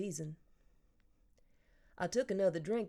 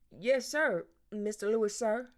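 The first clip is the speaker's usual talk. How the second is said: put-on eager polite boy; 3 semitones higher, 4 dB louder than usual. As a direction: overdo the politeness, eager to please. Boy overly polite to adult.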